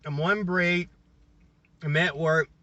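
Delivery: talking while chewing; words round a mouthful; mouth full. Real, not acted. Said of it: "I hate to record and eat".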